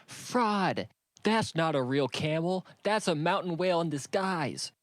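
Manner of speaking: loud, high yelling to the crowd; shout. A narrator's reading. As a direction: shout it as loud as you can. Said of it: "shouted as loud as she could".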